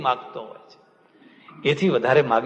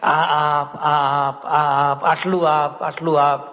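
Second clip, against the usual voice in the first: stubborn demanding prayer; much slower than usual. Retold or imitated. Preacher mocking a pushy devotee, nagging sing-song demand. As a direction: imitate a devotee pestering God. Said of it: "દુરાગ્રહી ન થશો".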